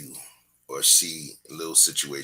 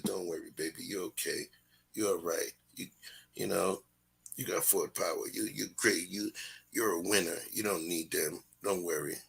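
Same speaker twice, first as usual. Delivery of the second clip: soft comforting; 6 dB quieter than usual. Retold or imitated. Dad comforting daughter.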